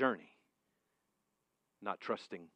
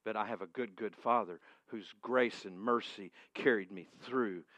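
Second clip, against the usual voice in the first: normal talking voice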